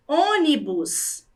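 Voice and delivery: "ônibus" said slowly; slow word presentation. Shown as a demonstration. Teacher introducing the next word, said slowly. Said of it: "temos a palavra".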